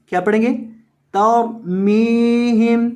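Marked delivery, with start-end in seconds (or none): 1.1-2.9 तर्मीहिम with the मी held long; long meem vowel. Shown as a demonstration. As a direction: stretch the ई after मीम in तर्मीहिम. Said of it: "मीम को लंबा करना है". (मीम को लंबा खींचकर)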